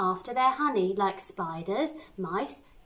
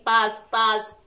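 louder menacing bee buzz; fearsome buzz; 5 dB louder than usual. Acted. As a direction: buzz like a giant beast. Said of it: "it's saying".

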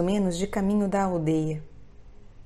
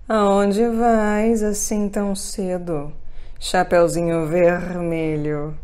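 coaxing wolf voice; 5 dB louder, slower than usual. Acted. Wolf questions the girl.

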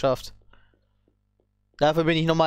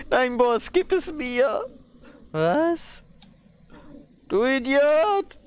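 high squeaky henchman voice; 6 semitones higher, much slower than usual. Acted. Voices rival henchmen bickering.

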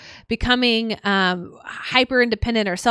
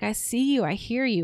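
gentle self-validation; 4 dB quieter than usual. Shown as a demonstration.

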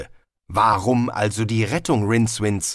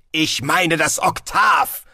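cool interruption; 8 semitones higher, 4 dB louder, slower than usual. A narrator's reading. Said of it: "unterbrach ihn Galder kühl".

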